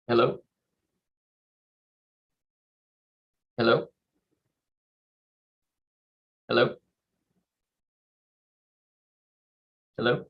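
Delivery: cutting out on a video call; call dropping out. Real, not acted. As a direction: voice breaking up on a bad line. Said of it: "We totally lost him".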